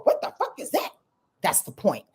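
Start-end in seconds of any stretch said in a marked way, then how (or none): 0.0-0.9 disgusted reaction. Retold or imitated.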